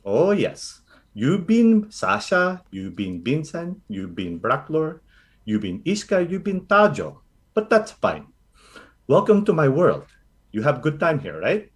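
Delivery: lightly voiced doting Filipino grandmother; a hint of a fussing lola reassuring the party; grandma Lola Carly. Lola Carly fussing over the recruits, lightly voiced.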